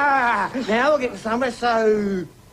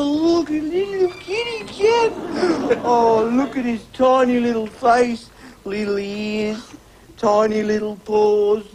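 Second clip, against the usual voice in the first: cooing. Acted. Cop coos over newborn kittens.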